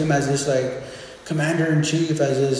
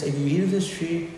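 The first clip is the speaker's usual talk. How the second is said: softer, gentle warning; God warning Adam like a loving father; 5 dB quieter than usual. Retold or imitated. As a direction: caution him tenderly like a father. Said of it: "in the tone of just a loving father".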